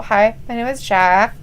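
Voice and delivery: lightly done bad Spanish accent; awkward mock-Spanish introduction. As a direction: put on a hint of a fake Spanish accent. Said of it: "trying to speak with his Spanish accent".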